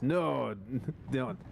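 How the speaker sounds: terse put-on Russian accent. Shown as a demonstration. Joking about a size warning, put-on Russian accent. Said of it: "You gotta say it in a Russian accent".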